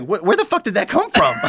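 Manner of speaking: a reviewer mocking a sudden plot twist, laughing; laughing disbelief. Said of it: "And it's like".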